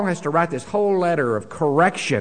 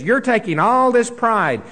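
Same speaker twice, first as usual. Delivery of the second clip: Paul paraphrased with raised rebuking voice; mock rebuke from Paul; 5 semitones higher than usual. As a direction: scold them as Paul would, rising up. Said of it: "And he says".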